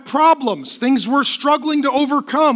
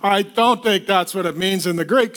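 lightly voiced skeptic, lower pitch; doubting churchgoer; 7 semitones lower than usual. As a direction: grumble it low, like a mild doubter. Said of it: "And some of you are like".

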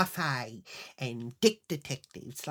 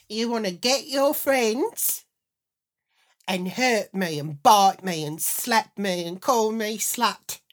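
raised voice climbing higher and louder; building outrage; 5 semitones higher, 8 dB louder than usual. Retold or imitated. Wife confronting her husband over the tapes, building to loud outrage. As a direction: accuse him, building to a loud, high protest. Accusation building in acted quarrel.

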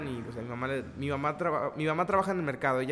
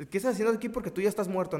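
startled question; 4 semitones higher, faster than usual. Retold or imitated. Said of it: "Pero no era como que está".

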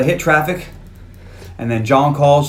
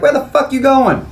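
mock angry yell; 12 semitones higher, 4 dB louder than usual. Angry question in cab.

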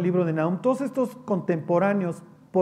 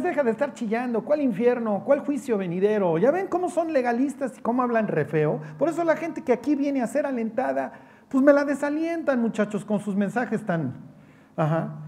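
higher, smug scolding voice; mocking church crowd; 5 semitones higher than usual. Preacher mimicking churchgoers scolding Jeremiah, higher and smug. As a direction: lift the voice into a prissy rebuke.

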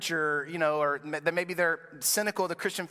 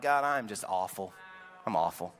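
despairing; 8 semitones lower, 4 dB quieter than usual. Retold or imitated. Believer despairing after hardship.

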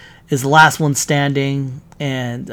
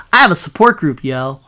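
jokey made-up line, pitched up; joking Cap; 4 dB louder than usual. Pretend. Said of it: "Captain America says".

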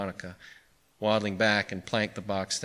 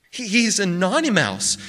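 put-on high, slow, louder child's voice; pleasant; 10 semitones higher, 6 dB louder than usual. A narrator's reading. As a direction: announce it pleasantly as a little boy. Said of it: "said the boy pleasantly".

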